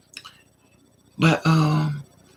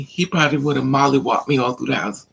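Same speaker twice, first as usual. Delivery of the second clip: ordinary talk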